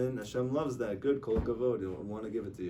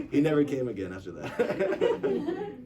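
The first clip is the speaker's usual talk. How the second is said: loud, higher, slow words through laughter; cracking up mid-sentence; laughing while talking; 4 semitones higher, 6 dB louder, slower than usual. Real, not acted. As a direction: talk through a real laughing fit. Laughing after own punchline.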